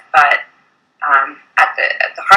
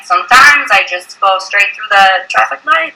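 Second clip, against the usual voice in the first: Quebec accent; 2 semitones higher, slower than usual. Shown as a demonstration. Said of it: "can you do a Quebec one".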